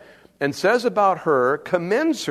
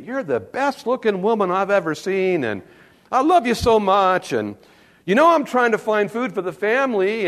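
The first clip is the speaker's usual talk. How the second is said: flattering husband; 5 semitones higher than usual. Retold or imitated. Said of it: "you can see him working her here".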